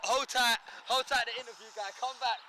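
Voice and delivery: big up the interview guy like a radio shout; playful shout-out. Pretend.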